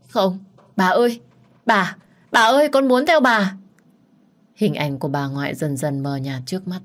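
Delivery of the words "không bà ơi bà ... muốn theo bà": high, loud, tearful pleading; desperate plea. Acted. The girl begs her fading grandmother to take her along, high and tearful. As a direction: cry out and beg her not to go. Begging vanishing grandmother to stay.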